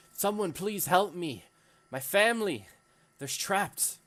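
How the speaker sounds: high, loud plea for help; desperate shouting. Acted. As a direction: cry out for someone to save your trapped family. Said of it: "he's looking around and he's shouting".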